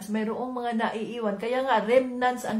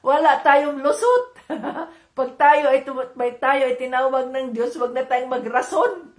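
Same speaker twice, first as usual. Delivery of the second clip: laughing through the words, louder; 5 dB louder than usual. Real, not acted. Preacher laughs telling the congregation there's no excuse, louder. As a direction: chuckle while you make the point.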